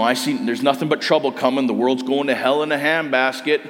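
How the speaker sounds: put-on doomsayer's grumble with a touch of American accent. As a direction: slip lightly into an American accent. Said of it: "I went into an American accent there".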